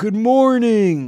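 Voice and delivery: very high, very loud belted voice. Trying an unpracticed greeting when asked: Tim Cook impression. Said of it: "give your best Tim Cook good morning".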